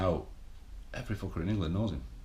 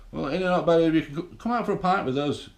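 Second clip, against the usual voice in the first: higher, louder, fast coaxing voice; mock-cajoling drinking buddy, higher and fast; tempting mate; 8 semitones higher, 6 dB louder, faster than usual. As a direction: ham up a pal luring you to the pub. Mates tempting you to the pub.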